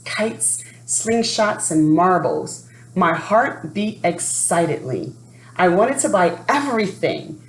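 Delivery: lively read-aloud storytelling voice; story narration. A narrator's reading. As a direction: read it like a children's picture book. Reading a picture book aloud.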